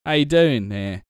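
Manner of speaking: lightly voiced stable owner, slow and proud; a hint of a folksy stable man, drawn out; stable hand voice. Shown as a demonstration. GM demoing a quick NPC voice, lightly voiced stable owner. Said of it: "I just think of a voice really quick".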